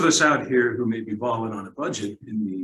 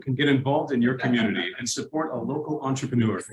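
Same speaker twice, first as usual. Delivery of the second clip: chipper 1950s ad. Pretend. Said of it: "do our voiceovers for us".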